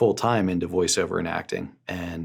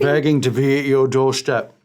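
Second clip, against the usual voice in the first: louder, higher showy star voice; put-on voice; 5 semitones higher, 6 dB louder than usual. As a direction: play a pompous celebrity. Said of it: "why are you talking like that".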